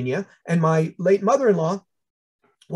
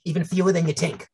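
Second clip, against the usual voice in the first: put-on thick New York accent, deadpan. Answering a fellow TA about wasps, heavy New York accent. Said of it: "my heaviest New York accent".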